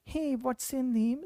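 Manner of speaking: weak husky patient voice, drawn out. Shown as a demonstration. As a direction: show a voice that can't tighten its cords, slowly. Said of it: "The person talks in a very low-pitched voice".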